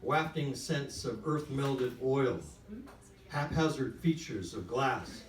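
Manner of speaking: measured literary reading aloud, phrase by phrase; story reading. A narrator's reading. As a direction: read the prose deliberately, with weighty pauses. Reads own story aloud to audience.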